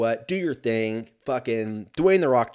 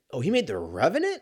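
odd surprised inflection; 4 semitones higher, faster than usual. Real, not acted. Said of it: "I don't know why I said it like that".

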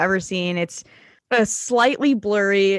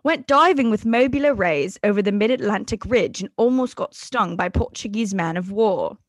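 lightly put-on British reading; his native British accent. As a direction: read it out in an imitated British accent. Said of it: "let me read this in his native accent".

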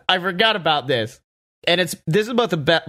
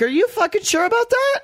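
much higher, mocking incredulous question; sarcastic disbelief; faster than usual. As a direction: throw it back with sarcastic doubt. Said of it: "I'm like".

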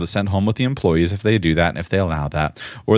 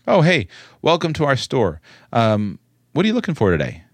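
friendly owner; 4 semitones higher than usual. Acted. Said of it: "which of these is the employee and which of them is the owner".

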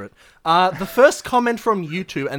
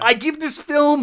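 dramatic build-up; 9 semitones higher, 5 dB louder, slower than usual. Acted. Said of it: "He's, he's really shaking".

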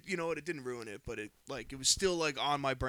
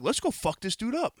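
retold fighting words; 9 semitones higher, 6 dB louder than usual. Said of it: "I'm like".

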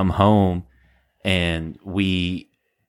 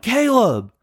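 very high mock holler of a name; retold holler. Storyteller calling for the housemate in another room, high holler. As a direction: call out high, as if across the house. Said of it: "I'm getting louder and louder".

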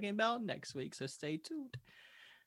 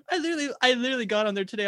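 fast, laughing disbelief; 7 semitones higher, 7 dB louder, much faster than usual. Real, not acted. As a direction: blurt it out laughing. Laughing exasperated reaction.

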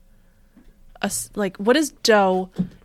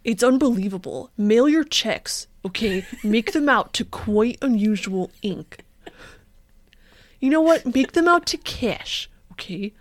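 Killian voice; 2 semitones higher than usual. Acted. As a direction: draw out the sales pitch in character. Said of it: "That was my Killian voice".

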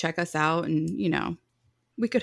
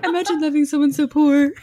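higher, louder, laughing; laughing quote; 10 semitones higher, 9 dB louder than usual. Acted. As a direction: laugh through a mock line. Quoting character amid laughter.

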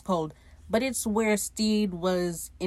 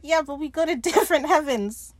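high mock-upset whine; tearful protest; 7 semitones higher, 4 dB louder than usual. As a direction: object as if still crying, with a laugh. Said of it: "And he starts crying".

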